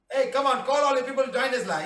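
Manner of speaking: rally everyone in, voice lifted; excited call-out. Real, not acted. Calling Tamil viewers to join.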